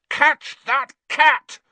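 loud, high, drawn-out yell; urgent high shout. A narrator's reading. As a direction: yell each word slowly and urgently. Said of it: "Ron yelled".

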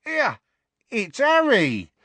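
high, drawn-out exclamation; excited recognition. A narrator's reading. Conductor spotting Harry on the bus, excitedly. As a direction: blurt out the name in high amazement.

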